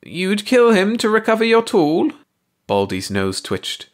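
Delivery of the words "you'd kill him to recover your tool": high alien voice. A narrator's reading. Baldy challenges Ursi.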